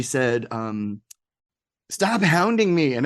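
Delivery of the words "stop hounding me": mock upset retort, higher and slower; retold upset. Guest retelling Debra's upset phone reply, mock upset. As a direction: imitate her upset reply, slowly and higher.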